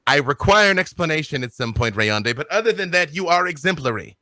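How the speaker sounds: captain handing out lofty praise; grand captain, musing then approving; formal captain. Acted. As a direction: commend your sailor in a lilting captain's voice. GM plays captain praising sailor.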